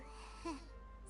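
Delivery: small, high chuckle; amused chuckle. Acted. Bystander watching two chefs bicker, amused chuckle. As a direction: chuckle softly at the outburst. Onlooker reacts to the outburst.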